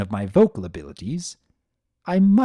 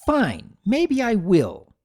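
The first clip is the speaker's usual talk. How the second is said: yelled back; 8 semitones higher, 3 dB louder, slower than usual. Acted. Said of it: "Sunny yelled back".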